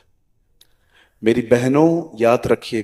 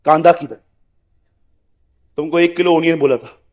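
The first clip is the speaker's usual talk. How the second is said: nagging wife. Retold or imitated. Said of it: "और दरवाजा खोलेंगी".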